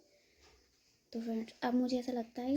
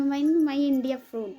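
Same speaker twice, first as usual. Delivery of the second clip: very slow, louder, struggling English; halting broken English; 3 semitones higher, 9 dB louder, much slower than usual. Retold or imitated. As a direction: drag out each word searching for English. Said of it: "मैं अब कैसे बताऊँ उनको". (धीरे धीरे अटकते हुए टूटी अंग्रेज़ी में)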